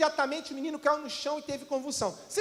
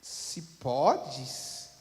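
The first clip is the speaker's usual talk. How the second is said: much lower, slow and quiet; Jesus answering the father in calm; 12 semitones lower, 5 dB quieter than usual. Retold or imitated. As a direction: say it softly and unhurried. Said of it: "bem tranquilo".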